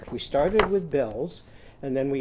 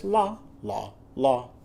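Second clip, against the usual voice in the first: high sing-song la. Shown as a demonstration. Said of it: "Lizzie sheep, she says".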